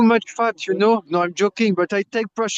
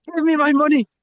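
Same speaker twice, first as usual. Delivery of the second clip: higher, louder demand for his money; retold shout; 6 semitones higher, 3 dB louder than usual. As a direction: bark it at the wife, mock-angry. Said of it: "He was shouting on his wife".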